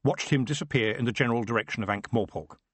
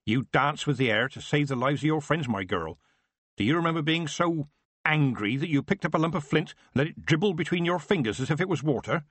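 Nanny's voice; 6 semitones higher than usual. Acted. Nanny scolding Tiffany.

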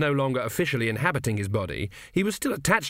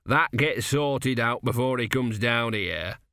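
patient; slower than usual. Acted. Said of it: "he said patiently".

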